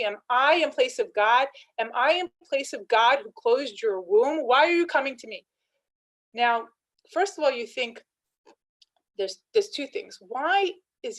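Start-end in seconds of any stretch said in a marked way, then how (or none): 0.0-5.5 louder, rising indignant questions; angry retort. Retold or imitated. Yaakov rebukes Rachel, louder and indignant. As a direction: hurl the questions back at her, quickly at the end. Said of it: "very angry".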